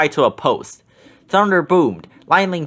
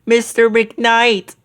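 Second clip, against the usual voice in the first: surprised; 7 semitones higher, much slower than usual. A narrator's reading. Unmasking surprise.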